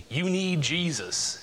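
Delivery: slow, drawn-out mock taunt. Fools making a mock at sin, slow jeering. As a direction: imitate a scoffer, stretching each word. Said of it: "they mock and say".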